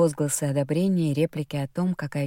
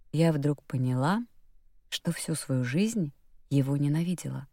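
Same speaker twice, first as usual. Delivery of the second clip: ordinary delivery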